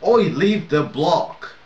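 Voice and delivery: loud, slow, high yell at a griefer; a drawn-out shouted order; yelled warning. Acted. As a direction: bellow it across the map. Yelling at a player in game.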